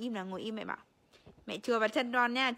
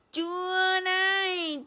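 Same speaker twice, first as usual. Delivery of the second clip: loud playful scold; hammed-up loud scold; mock scolding; 3 semitones higher, 7 dB louder than usual. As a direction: pretend to punish the baby. Mock punishing baby.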